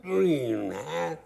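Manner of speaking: very high, loud, slow yell; furious holler. Retold or imitated. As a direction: bellow it at the whole room. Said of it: "And he hollered".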